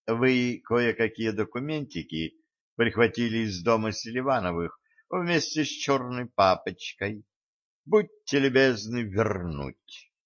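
soft silky threat; politely menacing, softly; insinuating voice. Acted. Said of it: "вкрадчивый голос". (вкрадчиво, тихо)

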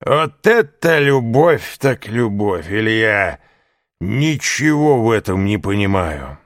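high, loud, slow tipsy voice; a drunk man marvelling mockingly; drunken mockery. A narrator's reading. Caderousse teases Fernand in a drunken high voice. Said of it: "закричал Кадрус пьяным голосом".

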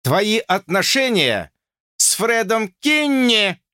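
high slow shout; yelling. A narrator's reading. George yelling at Lucy about Fred Kinney. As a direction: bellow out the name. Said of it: "заорал Джордж".

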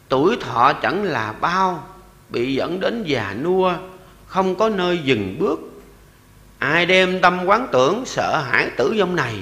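slow, measured scripture recitation; verse recitation. Acted. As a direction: intone the verse slowly, like a sacred text.

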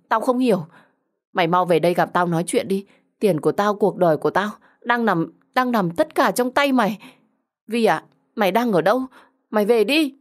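insistent, anxious entreaty; desperate pleading. Acted. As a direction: beg the friend to come back. Desperate plea to betraying friend.

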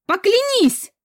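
screamed high and loud, all out; frantic scream. Acted. Heroine screams at the commander in desperation. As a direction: scream it at him with everything. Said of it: "заорала истошно".

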